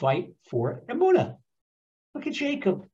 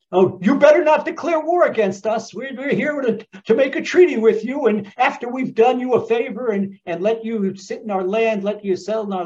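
Philistine king pleading; 4 semitones higher than usual. Retold or imitated. Avimelech to Isaac, nervous mock plea. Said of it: "and they say".

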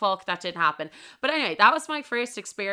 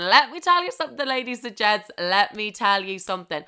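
emphatic proclamation; 2 semitones higher, 4 dB louder than usual. Real, not acted. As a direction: announce it with showy relish. Addresses audience with boastful proclamation.

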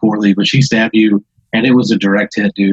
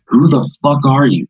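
mock yell; 5 semitones higher than usual. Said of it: "Just yells it at the top of her lungs".

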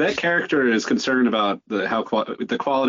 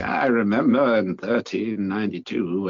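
put-on old person voice; slower than usual. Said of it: "kinda like the old person voice".

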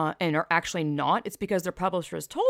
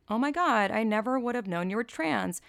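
mocking read; 5 semitones higher than usual. Shown as a demonstration. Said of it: "I can't not read this like this".

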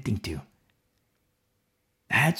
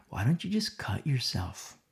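demon whisper; 8 dB quieter than usual. Retold or imitated. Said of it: "they're gonna whisper".

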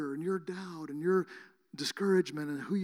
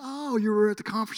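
surprised; 4 semitones higher, 6 dB louder than usual. Retold or imitated. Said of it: "I said".

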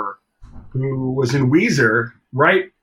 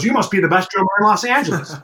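quick, higher mock snap; retold snap; 5 semitones higher, faster than usual. Bandmate snapping at the drummer in a retold spat, mock irritated. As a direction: imitate someone snapping, quick and raised. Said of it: "he snaps and he goes".

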